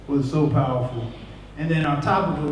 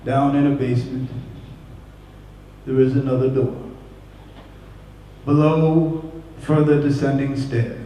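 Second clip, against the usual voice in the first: put-on Jamaican accent; slower than usual. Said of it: "heavy Jamaican accent".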